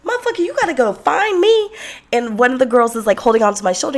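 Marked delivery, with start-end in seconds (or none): 0.0-1.7 sassy brush-off. Retold or imitated. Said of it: "I was like".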